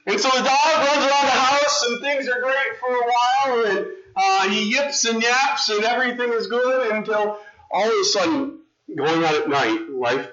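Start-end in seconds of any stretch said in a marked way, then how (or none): 0.1-8.6 storybook narration. A narrator's reading.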